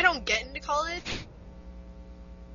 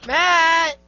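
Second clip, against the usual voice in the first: high, loud shout of a name; calling out; 6 semitones higher, 9 dB louder than usual. Real, not acted. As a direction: holler for a missing friend. Calling friend who does not answer.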